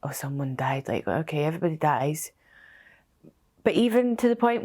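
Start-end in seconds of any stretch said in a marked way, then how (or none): 0.0-2.3 a dismissive, breathless aside, lower and softer; imitating her old careless self in a whisper; flippant whisper. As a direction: toss it off like it's nothing, unvoiced. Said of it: "I used to just be like".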